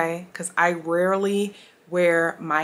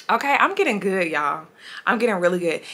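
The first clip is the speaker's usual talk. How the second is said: talking around retainers; wearing a retainer. Real, not acted. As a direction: retainers in, slightly lisped. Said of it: "I have my retainers in".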